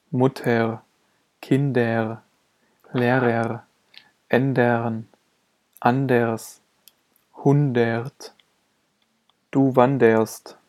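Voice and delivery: "er" drawn together into one vowel in "Mutter", "Kinder", "anders"; vocalic R. Shown as a demonstration. Teacher showing R in end syllables, merged vocalic R. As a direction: end "Lehrer" on a vowel, no separate E and R. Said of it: "werden dabei zu vokalischem R zusammengezogen".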